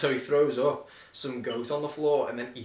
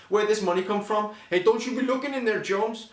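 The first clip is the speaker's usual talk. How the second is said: mock macho husband; 5 semitones higher, 4 dB louder than usual. Mimics hero arguing.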